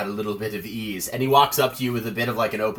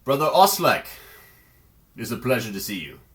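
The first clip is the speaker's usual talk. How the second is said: booming paladin calling out the name, then settling back to an easy tone; stalwart paladin greeting; 5 dB louder than usual. Acted. Paladin greeting a fellow priest of Ilmater, loud then easy. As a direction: hail an old friend across the hall, loud at first. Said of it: "he takes the sword and goes".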